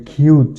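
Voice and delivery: "খিউজ" said with an aspirated "khiuz"; second syllable demo. Shown as a demonstration. Teacher models the second syllable for students, aspirated. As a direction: breathe the k in "খিউজ". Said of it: "উচ্চারণ হবে".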